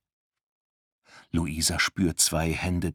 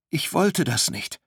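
high, plaintive wail; acted lament, pitched high; whimpering; 10 semitones higher than usual. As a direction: whine it like a frightened girl. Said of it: "jammert Luisa".

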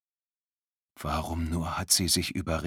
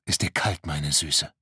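mocking; 3 semitones lower than usual. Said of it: "fragt eine höhnische Stimme".

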